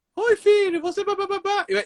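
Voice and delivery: thin woman's voice pitched way up. Describing a hypnotized man speaking as his mother, imitating a mother's high voice. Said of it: "E vai mudar a voz fina".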